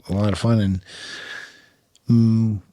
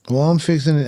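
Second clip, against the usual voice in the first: higher, louder Oklahoma cowboy voice; drawling cowboy; 6 semitones higher, 3 dB louder, faster than usual. Retold or imitated. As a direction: play the tobacco-chewing Oklahoma local. Oklahoma equipment manager voiced in story.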